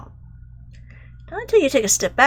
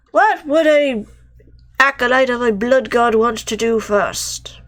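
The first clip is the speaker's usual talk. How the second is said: hushed whisper; conspiratorial whisper; 3 semitones higher, 5 dB louder than usual. Pretend. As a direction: breathe it out like a secret. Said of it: "whispered musing in role".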